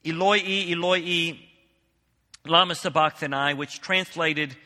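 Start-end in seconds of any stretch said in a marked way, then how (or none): 0.0-3.5 loud cry. A narrator's reading. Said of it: "Jesus cried out with a loud voice".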